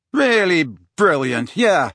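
bitter sarcasm, pitched a little up. Acted. Harry, locked out for the night, bitterly sarcastic. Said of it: "said Harry bitterly".

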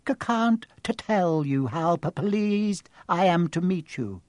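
slow, stuttering timid voice; nervous stammer. Acted. Quirrell meeting Harry, stammering nervously. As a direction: stumble nervously on each word.

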